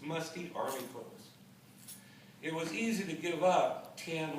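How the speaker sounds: measured poem recital, pausing after phrases; poetry reading. Acted. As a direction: read it out line by line as verse. Reads own poem aloud.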